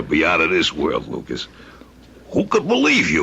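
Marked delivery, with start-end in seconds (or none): 2.3-3.2 breathy disbelieving whisper, almost to himself; incredulous whisper. Acted. Crook whispers in disbelief to his partner, amazed whisper.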